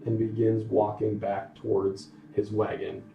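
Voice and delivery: unhurried storytelling, broken into phrases; game master narration. Acted. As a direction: lay out each detail for the players, with pauses. Game master sets scene.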